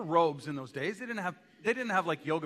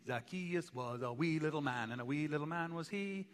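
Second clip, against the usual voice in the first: put-on Scottish accent; 6 dB quieter than usual. Preacher recalls a Sunday school song for the congregation, embellished Scottish accent. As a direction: lilt the children's rhyme with a put-on Scottish accent. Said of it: "sing it with the Scottish accent".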